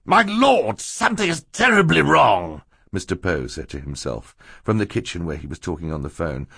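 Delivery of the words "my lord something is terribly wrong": high-pitched cry of alarm; alarmed outburst. A narrator's reading. Banker hears screams from the kitchen, high alarm. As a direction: exclaim in high, rising panic.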